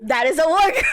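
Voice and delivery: indignant shout. Acted. Players arguing over wardrobe.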